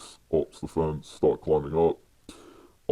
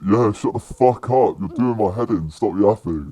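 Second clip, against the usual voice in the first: loud, higher-pitched opening, easing off; imitated fed-up retort; 4 semitones higher, 5 dB louder than usual. Climber answering the Polish guard back, imitated exasperated shout. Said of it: "and he says".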